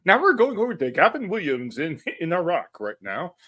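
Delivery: BBC reporter voice; lightly voiced British war correspondent. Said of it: "sounds like a B B C war correspondent".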